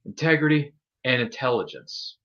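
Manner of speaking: slow, high, intense wrestler delivery; Kurt Angle impression. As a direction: drag out each word like a wrestling promo. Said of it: "And he said".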